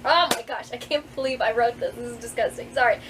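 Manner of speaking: normal talking voice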